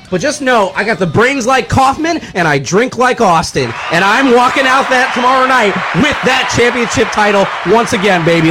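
hyped-up wrestler promo, shouted; wrestling promo. Acted. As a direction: cut a brash championship promo. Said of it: "if you cut a promo right now".

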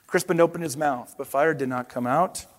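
expressive picture-book narration; storybook read-aloud with paced reveals; reading to children. Acted. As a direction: tell it to the kids like a bedtime storybook.

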